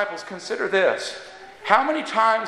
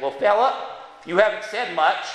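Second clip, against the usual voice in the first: put-on New Jersey accent, woman's voice. While the speaker eats soup, Harriet finally asks him, in her New Jersey accent. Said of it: "in her New Jersey accent".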